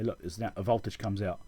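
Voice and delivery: usual speaking voice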